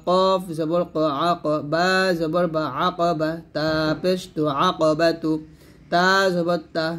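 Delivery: measured recitation with stretched letter names; Arabic spelling drill. Shown as a demonstration. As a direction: recite letter by letter for pupils to follow.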